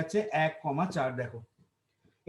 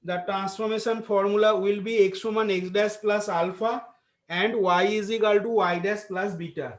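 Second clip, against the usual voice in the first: dictating; much slower than usual. Acted. Dictating formula to class.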